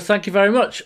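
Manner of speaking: high mock-feminine thanks; imitated woman. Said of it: "And then she said".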